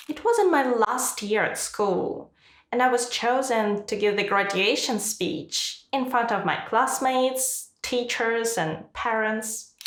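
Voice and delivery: key words like "last year" and "graduation speech" stressed, slight slowing. Shown as a demonstration. Teacher reading a student's example, key words stressed. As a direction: stress "classmates", "teachers" and "parents", easing off at the end. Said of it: "Notice which words are stressed".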